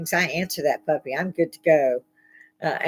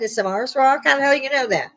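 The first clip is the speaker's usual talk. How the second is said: higher and louder, disbelieving rise on rock; incredulous question; 8 semitones higher, 4 dB louder than usual. Real, not acted. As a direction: scoff at the claim in raised disbelief. Incredulous mock questioning of claim.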